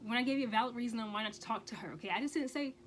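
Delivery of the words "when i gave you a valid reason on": put-on high, loud angry demand to boyfriend; confronting boyfriend over his texts, angrily; retold angry outburst. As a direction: replay the fury at him in a higher pitch. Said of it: "So I'm like".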